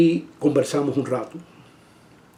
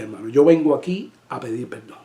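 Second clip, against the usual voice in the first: humble apology; 3 semitones lower than usual. Retold or imitated. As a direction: ask forgiveness gently, head bowed in voice. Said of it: "Así, así le dije".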